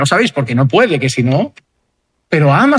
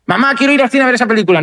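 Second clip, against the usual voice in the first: put-on higher, fast eager child's plea; 5 semitones higher, faster than usual. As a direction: rush it out like a kid begging. Child begging to go to cinema.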